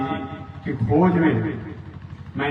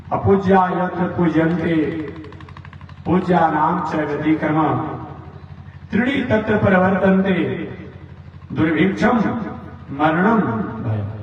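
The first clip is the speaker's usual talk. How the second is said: Sanskrit verse recital. Acted. Preacher reciting a scripture verse to the listeners, chanting. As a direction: recite the shloka in a measured, chanting cadence.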